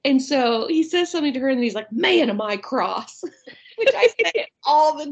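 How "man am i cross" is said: calm cross. Retold or imitated. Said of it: "the way he says it is so calm".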